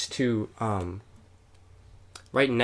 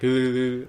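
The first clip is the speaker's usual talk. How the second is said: mock shivering. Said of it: "I'm cold and I'm like".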